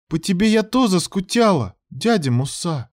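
put-on high, soft child voice; quietly, like a small girl; soft little girl. A narrator's reading. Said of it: "негромко сказала она".

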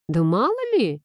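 dismissive, snappish retort with a swooping rise. A narrator's reading. Heroine fends off her friend's theory, snappish. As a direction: brush it off snappishly. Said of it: "огрызнулась я".

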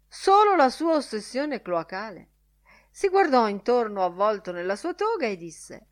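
lightly voiced professor in mock oration; a hint of grand, swelling rhetoric; orating professor. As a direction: orate loudly, lifting the key phrases high.

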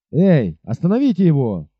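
a mild acted call for help; captain shouting after the rider. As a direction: call out to stop him. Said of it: "крикнул он".

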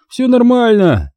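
high, slow laid-back voice; slow easygoing high drawl; lazy drawl. A narrator's reading. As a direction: drawl it, relaxed and stoned. Igor drawls calmly.

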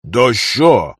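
mildly offhand call back; a touch of dismissive impatience; brushing off. Acted. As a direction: wave them away with the voice. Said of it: "отмахнулся Моня".

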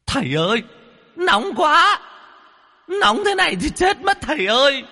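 very high, piercing ghost cry from the boiling kettle; shrill ghost wail. A narrator's reading. Ghost boiled in the kettle begging the master, very high wailing. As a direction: squeal in pain like a trapped spirit. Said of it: "vang lên tiếng kêu choe choé".

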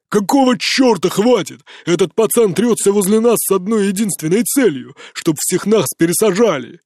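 put-on loud, furious drunk outburst; drunken yell. A narrator's reading. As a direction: yell it at them. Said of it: "и заорал".

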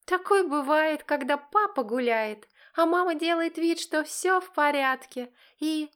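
high, mocking singsong accusation; taunting. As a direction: rub their noses in it. Daughter taunting parents.

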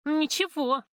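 a biting, high, sneering «Ничего»; sarcastic. A narrator's reading. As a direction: let the word sting with scorn. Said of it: "язвительно произнесла Любка".

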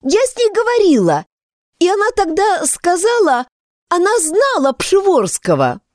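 put-on excited girl voice. Girl excitedly telling news.

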